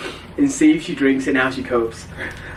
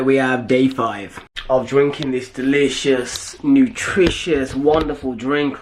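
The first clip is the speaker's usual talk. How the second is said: sarcastic; 3 semitones lower, slower than usual. Acted. Praising a foul drink.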